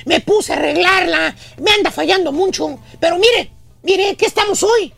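lightly voiced embarrassed handyman making excuses; mock apologetic excuse-making; mildly sheepish. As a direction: sound a touch sheepish as you stall. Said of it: "medio apenado te dice".

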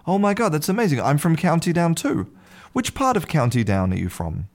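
put-on amazed drunk Irishman can't believe his luck; excited. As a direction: gush like you've found a long-lost brother. Irishman thrilled at shared county.

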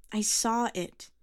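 loud, high, slow insistence; stubborn insistence. A narrator's reading. Girl to the old man, slow and stubborn. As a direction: plant your feet and insist.

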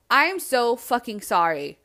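apologizing with a touch of anger; mad apology. Retold or imitated. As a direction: say sorry while still mad. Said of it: "even as I'm saying that, I'm, like, fucking mad".

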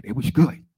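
"was" slurred to "wash", "good" hit loud; Margaret Washington. Retold or imitated. Imitating a colleague's praise, "was" said loudly as "wash". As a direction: mimic shushed S in "was", punching "good". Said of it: "she used to shh her S's".

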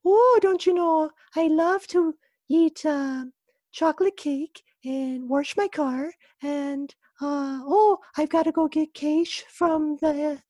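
high falsetto Midwestern mom, sing-song; falsetto mom impression. Son imitating his mom back in the day, in high falsetto. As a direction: chirp it way up like a sweet innocent mom. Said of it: "an impression of my mom ... it's always falsetto".

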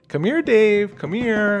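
high, loud, teasing come-here call; grandma's creepy call. Retold or imitated. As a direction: lure him in like a grandma gone mad. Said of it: "hysterically starts laughing at me".

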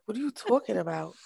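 laughing, exaggerated take on his accent; mock his accent while amused; Scott. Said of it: "his accent isn't even that bad".

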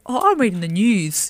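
slow, drawn-out mock quote; mocking imitation. Teasing a co-host's excuse about work, slow mocking imitation. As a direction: stretch it out to send him up. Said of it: "This bloke's like".

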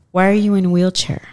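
lightly imitated childlike voice. Stranger asking about the wheelchair, lightly childlike voice. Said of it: "really, really almost childlike voice".

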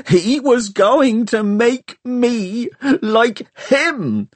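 high, slow scream stressing going; grieving girl screaming over her fallen stalker. A narrator's reading. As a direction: wail it out, stretching going. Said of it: "screamed Hester".

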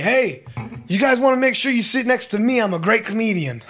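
high, chatty mock-drunk boast; drunk guy. Drunk traveler brags to passengers while boarding, high mock-drunk call. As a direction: imitate a drunk working the crowd. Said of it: "I hear him say".

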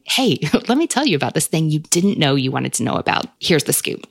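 lightly acted warm author, pitch swooping on the opening; warm confiding voice. Imagined author cracking open the door to a reader, warm and confiding. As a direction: let the listener in on a treat, with a touch of laughter. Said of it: "writes it in such a warm voice".

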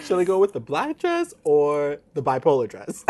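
mock her choice while laughing. Mocking Cheryl's dress choice.

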